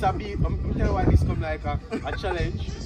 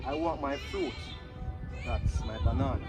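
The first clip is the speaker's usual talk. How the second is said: dub poetry; 8 semitones lower, 5 dB quieter than usual. Acted. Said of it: "You're doing dub poetry".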